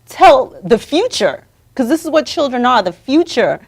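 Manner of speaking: righteous scolding on someone's behalf. Pretend. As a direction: tell them off in outrage, punching key words. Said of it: "go over there and curse them out".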